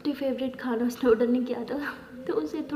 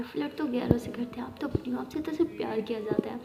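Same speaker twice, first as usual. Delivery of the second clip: tender whisper; 3 dB quieter than usual. Acted. Sweet talk on the phone.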